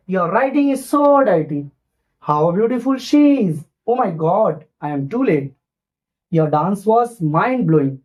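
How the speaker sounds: slow, emphatic exclamations; read with feeling. Shown as a demonstration. Teacher shows pupils the right way, with feeling. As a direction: put real feeling into each cry. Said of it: "तो इसमें एक feeling डालते हैं जब हम read करते हैं".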